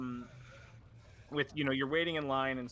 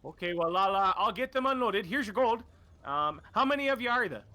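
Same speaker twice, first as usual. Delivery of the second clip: much higher, louder, chummy merchant voice; the game master voices the dockside shopkeeper greeting the adventurers, higher and louder; cheery shopkeeper; 7 semitones higher, 5 dB louder than usual. Acted. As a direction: greet them like a friendly dock trader. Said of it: "looks at your cart and goes".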